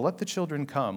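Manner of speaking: softly spoken, tender invitation; soft, gentle coaxing. Shown as a demonstration. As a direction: say it gently and softly, like a kindly reading. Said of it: "It's less of this gentle".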